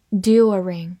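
"During" in British style, DYOO-ring; British accent. Shown as a demonstration. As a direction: give the British reading of "During". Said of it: "或者美式发音".

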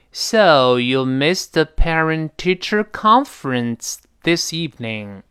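slow model line, "con" of "conference" highest; peak on con. Shown as a demonstration. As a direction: crest on "con", let "this evening" fall unstressed. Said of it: "中间这个con最高". ("con"最高，"this evening"轻轻带过)

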